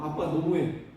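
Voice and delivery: ordinary talk, nothing marked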